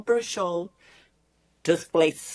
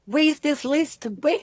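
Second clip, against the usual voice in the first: much higher and louder, eager questions; urgent excitement; 11 semitones higher, 4 dB louder than usual. Retold or imitated. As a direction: demand to see it right now. Searching for the list.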